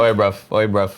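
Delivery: put-on London accent. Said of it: "Now you're back to the U K".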